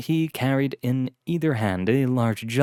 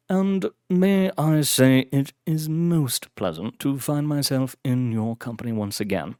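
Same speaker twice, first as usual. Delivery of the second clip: put-on distinguished British accent; 3 semitones higher than usual. Butler telling Blackwood he is pleased, genteel British accent. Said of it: "distinguished British accent".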